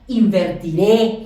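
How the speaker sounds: "invertiré" drawn out, stressed on the final é. Shown as a demonstration. Teacher showing the future ending to students, "invertiré" stressed on final é. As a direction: slowly stress the last syllable of "invertiré". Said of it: "con acento en la E".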